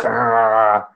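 a short mock growl of a guitar's awful untuned noise; imitated guitar noise. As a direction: voice the ugly strum as one rough "Argh". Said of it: "with the most awful sound".

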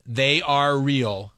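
"they are real" very slowly, each word stretched. Shown as a demonstration. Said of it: "one more time".

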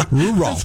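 "Rural" as two separate beats, ru-ral; broken into two. Shown as a demonstration. Co-host showing how to break it up, "Rural" in two parts. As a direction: split "Rural" evenly into "roo" and "ral". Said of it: "Break it up into two".

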